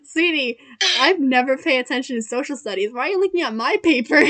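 mock-sweet put-down; condescending. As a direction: talk down to a cheater. Talking down to cheating classmates.

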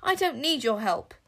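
angry. Acted. Boy rejecting help angrily.

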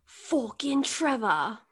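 restrained British curse; second try at British. Retold or imitated. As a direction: try the accent again, toned down. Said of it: "I'll give you another chance".

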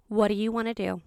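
soft, level question; really calm. Retold or imitated. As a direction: imitate a calm friend steadying someone upset. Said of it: "She's really calm".

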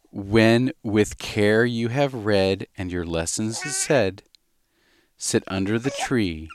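slow, sing-song storybook reading; slow nursery-poem reading; reading a poem to a baby. Acted. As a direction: read it gently to the baby.

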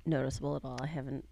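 sarcastic. Real, not acted. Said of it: "Sarcasm coming through the radio waves".

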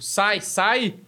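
"Sai, sai" as two quick waves away; repeated brush-off. Retold or imitated. Imitating friend dancing eyes closed, brushing people off. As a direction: shoo them off with a repeated "Sai, sai". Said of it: "era, tipo".

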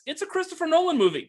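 punchline delivery. Real, not acted. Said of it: "I could otherwise rephrase that as".

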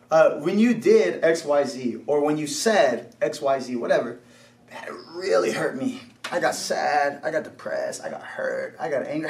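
low, subdued admission of hurt; acted heart-to-heart, restrained; gentle honesty. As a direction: own up to the hurt calmly, pitched low. Models confessing hurt to that person.

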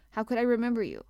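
mildly exasperated question; protesting. A narrator's reading. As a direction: protest with a lifted voice. Guardian excuses his forgetting.

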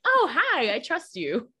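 high, sweet, delighted reply; won-over customer. Retold or imitated. Customer answering the cold caller, high and trusting. Acts out charmed sales customers.

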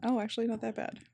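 soft whisper. Real, not acted. Whispers along with S1.

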